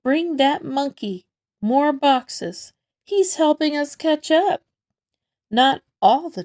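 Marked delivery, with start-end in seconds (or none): 0.0-4.6 yelled. Acted. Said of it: "Someone noticed and yelled".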